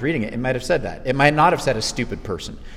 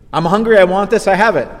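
brute; 6 semitones higher, 7 dB louder than usual. Retold or imitated. Voicing impulse-driven brute.

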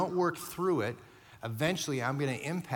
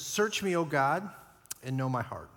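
scripture reading. Shown as a demonstration. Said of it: "Here's what he says".

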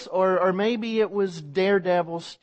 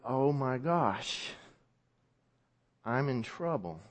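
scared inner thought; 6 semitones lower, 8 dB quieter than usual. Acted. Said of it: "they begin to wonder".

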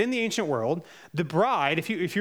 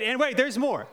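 infomercial pitchman; 4 semitones higher than usual. Retold or imitated. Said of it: "just like Billy Mays, the old infomercial guy".

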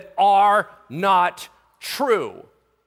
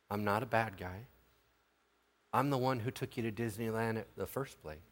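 soft, low, measured fatherly voice; gently calm an upset kid, keeping it low; hushed, tender parent talking a child down; patient dad to child; 9 semitones lower, 15 dB quieter than usual. Acted.

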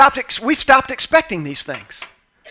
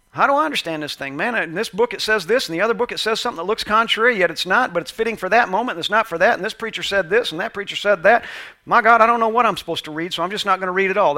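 confused reader; 3 dB quieter, faster than usual. Retold or imitated. Voicing confused Bible readers.

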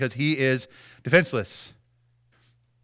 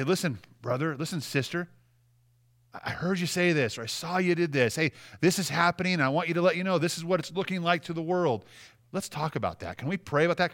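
gentle correction; 4 dB quieter than usual. Shown as a demonstration.

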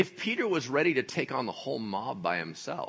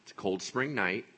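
usual speaking voice

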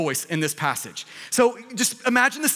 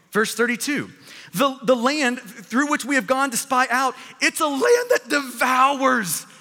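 fearful voice of the flesh. Acted. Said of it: "Here's what the, the voice of the flesh sounds like".

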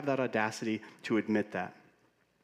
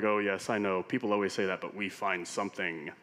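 smirking chef; 3 semitones lower than usual. Retold or imitated. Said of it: "they would say with a smirk".

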